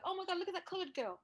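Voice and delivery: high mocking imitation of the manager; a hammed-up snooty coworker; mock posh manager. Manager sneering at a young black colleague. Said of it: "She was like".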